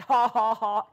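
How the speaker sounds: loud, deliberate ha-ha-ha; retold laughter, put on and punchy; imitated laugh. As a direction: act out a forced laugh, punching each ha. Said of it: "but I laughed".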